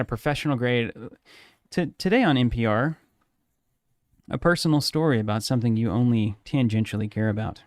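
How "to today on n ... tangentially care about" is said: measured, unhurried mock public-radio intro; NPR radio host parody. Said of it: "isn't that accurate, though?".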